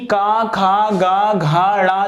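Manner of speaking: का खा गा घा ड़ा said from the throat; ka-varga recital. Shown as a demonstration. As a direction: sound each of का खा गा घा ड़ा clearly from the throat. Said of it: "जो वर्ण होंगे वो काय से उच्चारित".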